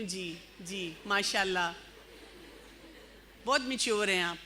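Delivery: soft, dry fake-agreeing "جی، جی"; quietly mocking approval; sarcastic politeness. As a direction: humour her with sarcastic praise. Mock polite reply to immature girl.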